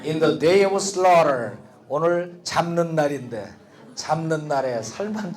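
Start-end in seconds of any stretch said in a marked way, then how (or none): 0.0-1.6 slow repeat. Shown as a demonstration. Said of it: "repeat after recording".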